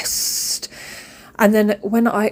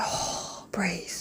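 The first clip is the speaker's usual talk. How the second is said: calming self whisper; 3 semitones lower, 12 dB quieter than usual. Retold or imitated. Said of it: "I was like".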